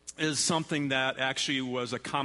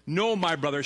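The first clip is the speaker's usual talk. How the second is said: louder, understated narrated plea; crying out in protest; 6 semitones higher, 8 dB louder than usual. A narrator's reading. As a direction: read her protest with a touch of urgency. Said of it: "she cried".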